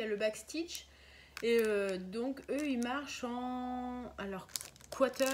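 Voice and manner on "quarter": English word in a French accent; real French accent on English. Real, not acted. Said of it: "excusez-moi pour mon accent anglais".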